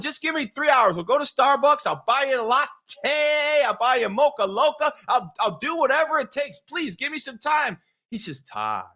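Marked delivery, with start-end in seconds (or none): 0.0-7.8 pleading. Retold or imitated. Acting out his plea to Billy. 8.4-8.8 soft, low, unhurried reply; imitating a very calm man. Coach calmly answering Todd's plea, calm. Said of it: "he's really calm".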